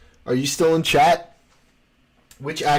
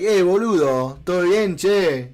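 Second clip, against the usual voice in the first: casual Argentine Spanish, lightly voiced; Argentine greeting to a friend; 2 semitones higher than usual. Argentine guest imitating how friends greet, casual Argentine Spanish. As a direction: greet your buddy like a porteño. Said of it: "You're like".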